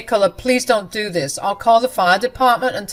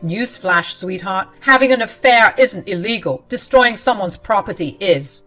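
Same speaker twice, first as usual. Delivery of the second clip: sneering retort; 3 semitones higher, 8 dB louder than usual. Acted. Husband sneers at wife.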